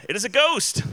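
reading the disciples' terrified shout aloud; cried out in fear. A narrator's reading. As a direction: mildly voice the disciples' fearful cry. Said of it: "they cried out in fear".

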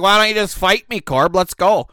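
put-on loud, high, pumped-up drunken challenge; drunk challenge to fight. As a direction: call him out to fight, fired up. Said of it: "And I'm like".

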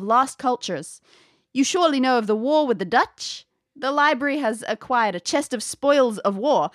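a hint of a sixteen hundreds English lady; old English accent. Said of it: "she explains".

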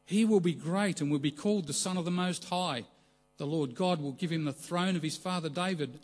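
angel's announcement with mounting excitement; excited angel. Acted. Angel telling Mary she will bear a son, excitedly. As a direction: proclaim momentous news with a touch of excitement. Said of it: "hear the excitement in the angel's voice".

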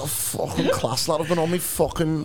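imitated Scouse taxi driver; Scouse accent. Passenger mimicking the driver raving about his game, Scouse accent. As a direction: put on a keen Scouse cabbie. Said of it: "Is that a bad Scouse accent".

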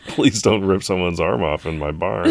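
playful begging through laughter; laughing mock plea. Host voicing bar owner begging a Wookiee, laughing plea. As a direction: plead while cracking up.

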